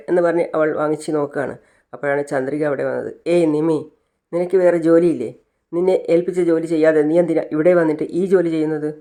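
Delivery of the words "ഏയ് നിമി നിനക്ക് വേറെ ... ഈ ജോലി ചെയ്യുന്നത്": louder, sharp telling-off; scolding. Acted. Jealous boss scolding a flirting employee, loud and sharp. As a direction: put her firmly in her place.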